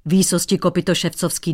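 loud, huffy retort. Acted. Painter huffing at the cobbler, irritated. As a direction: snap back offended. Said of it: "durdil se cizinec".

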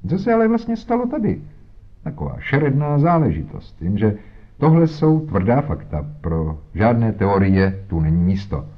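very high, fast pompous police voice; blustering inspector. Acted. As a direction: brush off theory with bluster. Inspector blusters, dismissing theories.

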